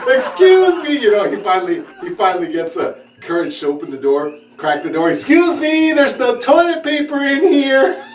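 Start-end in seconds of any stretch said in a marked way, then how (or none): 0.1-1.0 high, slow calling-out shout. Retold or imitated. Stuck guest calling from the bathroom, a high, slow call. 5.1-8.0 high, polite plea; polite call through door. Retold or imitated. Guest asking the house for toilet paper, high and polite.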